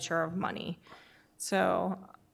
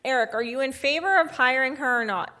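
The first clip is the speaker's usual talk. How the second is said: muffled; 5 semitones higher, 5 dB louder than usual. Real, not acted. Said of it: "your microphone sounds very muffled".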